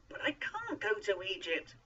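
high, loud, stressed refusal; insistent. A narrator's reading. Moses refuses Egypt a second time, loudly insistent. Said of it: "Moses insisted".

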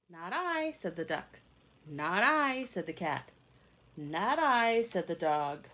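put-on lively read-aloud for young children; storybook reading. A narrator's reading. Reading a picture book aloud to kids, lively storytelling. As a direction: tell it like a bedtime picture book.

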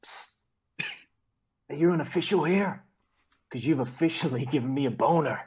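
lightly voiced American pickup line; Will Ferrell impression. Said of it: "What's the accent?".

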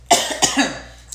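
sharp dry cough; coughing fit. Real, not acted. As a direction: cough hard mid-sentence. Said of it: "I'm so sorry".

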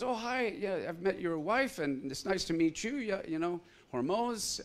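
high, cheery greeting; friendly pastor. Retold or imitated. Pastor greeting, voiced higher.

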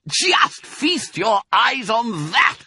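high, slow, loud relish; excited cry. A narrator's reading. Fox shows off the food, crying out excitedly. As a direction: cry it out, dragging every word. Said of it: "cried Mister Fox, dancing up and down".

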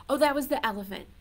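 usual speaking voice

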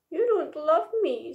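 understated tearful complaint; mock sobbing. A narrator's reading. Little Monkey to Big Monkey after being shouted at, tearful. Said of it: "sobbed Little Monkey".

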